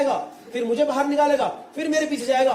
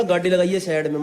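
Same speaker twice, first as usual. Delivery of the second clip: put-on Haryanvi accent; 5 semitones lower than usual. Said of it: "एकदम खड़ी हरियाणी में बोला".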